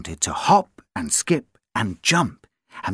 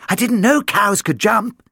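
dog voice; 7 semitones higher than usual. Acted. Billy speaks.

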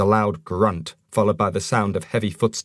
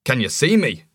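puzzled dwarf voice; 4 semitones higher than usual. Acted.

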